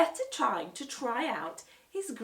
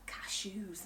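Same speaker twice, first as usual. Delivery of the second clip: whisper; 6 dB quieter than usual. Acted. Secret thought.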